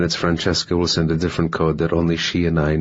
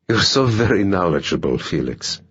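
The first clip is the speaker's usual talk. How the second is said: half mocking; 2 semitones higher than usual. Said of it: "half mocking".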